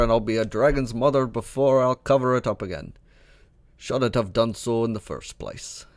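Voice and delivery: a loose, half-Scottish dwarf voice; a gamer's own voice stretching toward a Scottish dwarf; attempted Scottish dwarf. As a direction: read the old dwarf with a try at a burr. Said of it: "I apologize if that was a terrible accent".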